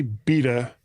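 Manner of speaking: "beta" said as BEE-tuh; beta as others say it. Shown as a demonstration. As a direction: say "beta" with a long EE in the first syllable. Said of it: "you guys say".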